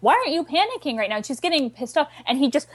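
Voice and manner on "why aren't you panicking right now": high, fast, panicked question; nervous girlfriend snapping at a calm boyfriend; panicky Willow. Retold or imitated. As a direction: blurt it out in a nervous rush. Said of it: "and she's like".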